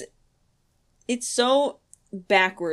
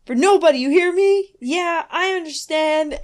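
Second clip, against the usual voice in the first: mock stern warning; 6 semitones higher, 4 dB louder than usual. Acting Todd's warning, girl's answer.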